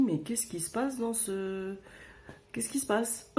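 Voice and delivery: hushed whisper of disbelief. Retold or imitated. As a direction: whisper it to yourself. Inner thought, disbelief. (chuchoté, incrédule)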